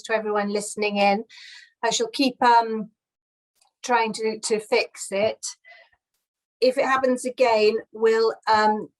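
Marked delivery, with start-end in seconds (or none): 3.8-5.4 call dropping out. Real, not acted. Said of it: "mic keeps dipping in and out".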